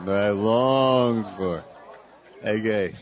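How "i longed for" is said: slow tender demo. Shown as a demonstration. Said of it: "you should only say that to your wife".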